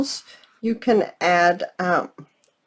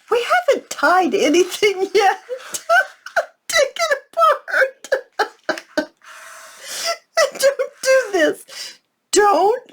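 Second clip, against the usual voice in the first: high-pitched words broken by real laughter; tearful giggling, voice pushed high; laughing to tears; 12 semitones higher than usual. Real, not acted. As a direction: try to instruct while cracking up. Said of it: "I'm crying".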